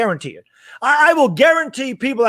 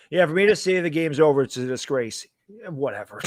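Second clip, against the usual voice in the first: much lower, much softer sarcastic mutter; dismissive; 8 semitones lower, 6 dB quieter than usual. Real, not acted. Brushing off a critic, low and dismissive. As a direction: brush it off with contempt.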